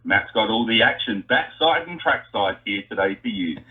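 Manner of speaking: hyped race-day announcer, pitch up; crowd announcer voice. Pretend. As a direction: work the crowd like a trackside announcer. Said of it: "in your best burnout crowd announcer voice".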